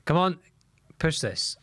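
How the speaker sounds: sudden shout of encouragement; yelling from the sidelines. Real, not acted. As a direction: yell it at the pitch. Fans shouting at the match.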